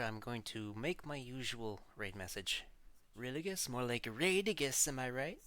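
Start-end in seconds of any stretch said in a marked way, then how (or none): 3.2-5.4 playful pun delivery. Acted. Pun on raid message.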